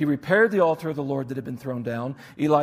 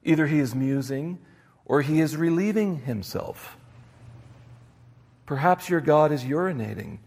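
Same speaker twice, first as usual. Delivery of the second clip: a light jeering read of the prophet's taunt, first words pitched up; mocking taunt. Elijah taunting the prophets of Baal, mocking. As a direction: lean into the crass jab at Baal. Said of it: "Elijah mocked them, saying".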